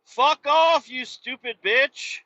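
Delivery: real road rage shout; angry yell. Real, not acted. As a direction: curse them out at full volume. Yelling at another driver.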